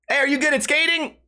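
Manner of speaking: put-on high, eager kid calling out; mock kid voice. Kid on a bike to the comedian, high eager voice. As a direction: play the eager kid who rode up.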